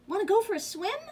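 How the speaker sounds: high, loud duck question; duck's invitation. A narrator's reading. Duck inviting the spider to swim, high voice. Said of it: "called the duck".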